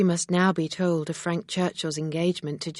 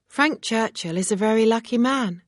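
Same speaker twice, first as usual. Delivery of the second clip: smiling; 5 semitones higher, 4 dB louder than usual. Acted. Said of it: "Emma said with a smile".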